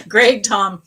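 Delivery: laughing. Real, not acted. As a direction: say it still laughing. Laughing at Tom's comment.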